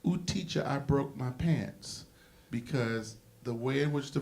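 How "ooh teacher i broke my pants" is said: imitating a Latino kid. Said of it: "the Latino kid who would say".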